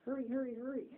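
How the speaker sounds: a father screaming warnings from heaven; frantic warning. Retold or imitated. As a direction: hurry them along in a panic. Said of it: "writing and screaming to Nancy Fox".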